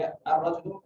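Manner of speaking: अर्रजुलु with no L in the article, doubled R; अर्रजुलु, article's L left silent; silent lam. Shown as a demonstration. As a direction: glide from A straight into a doubled R in अर्रजुलु. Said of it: "नाम pronounce नहीं होता".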